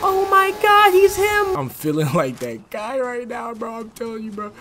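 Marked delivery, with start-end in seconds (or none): 0.0-1.6 much higher amazed cry; awed high exclaim. Real, not acted. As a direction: squeal in disbelief. Awed by enemy skill.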